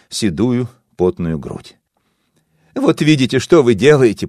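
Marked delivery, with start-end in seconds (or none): 2.7-4.3 high, loud reproachful cry; shouting. Acted. Daughter shouts at the narrator, blaming him. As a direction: hurl it at him. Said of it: "прокричала дочка Васо".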